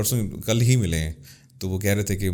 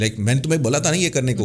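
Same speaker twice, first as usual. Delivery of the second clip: hurried speech that swallows words; fast, run-together Urdu, میں نے تمہیں بولا تھا clipped and hurried; rushed, clipped words; 4 semitones higher than usual. Shown as a demonstration. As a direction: say it in a rush, cutting the words. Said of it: "So we cut words".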